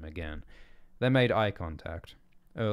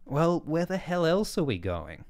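loud, high, fed-up demand; exasperated; 10 semitones higher, 6 dB louder than usual. A narrator's reading. Bell fed up with Erling's lack of plan, exasperated. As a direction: throw up your hands at him.

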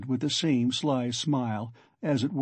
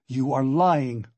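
slow, emphatic accusation; slow, defiant anger; angry accusation; 3 dB louder, slower than usual. Acted. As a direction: accuse him, drawing out the words. Accused man defies the investigator.

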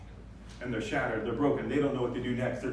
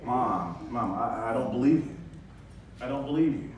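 cutting disbelief. Pretend. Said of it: "a son can really cut".

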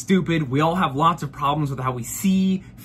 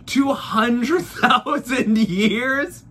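higher, slow disbelieving yell; outraged shout; 5 semitones higher, much slower than usual. Real, not acted. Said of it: "I'm furious".

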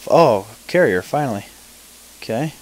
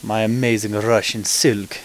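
amateur attempt at a Russian accent; lightly Russian-accented mock boast. Shown as a demonstration. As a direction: put on a rough Russian accent. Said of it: "that's my Russian accent".

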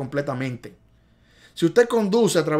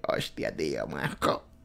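Spain Spanish; 13 semitones lower, 9 dB quieter than usual. Pretend. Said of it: "cómo lo dice ella en su español".

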